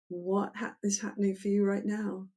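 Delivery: soft lullaby-like question; low and slow. Shown as a demonstration. Therapist asking client tenderly, soft and slow. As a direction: ask it gently, like a mother with a lullaby. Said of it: "So you go low and slow".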